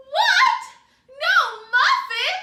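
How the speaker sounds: very loud, shrill, high outdoor calling shout. Asking listeners to say the story line together; shouting calling voice. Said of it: "Do it with me".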